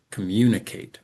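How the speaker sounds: "communicate" stressed on the second and last syllables. Shown as a demonstration. Teacher showing word stress in communicate, second and last syllables strong. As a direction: lean on "mun" and "cate" in "communicate". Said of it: "the second and then the last syllable".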